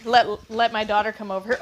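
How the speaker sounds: ordinary talk, nothing marked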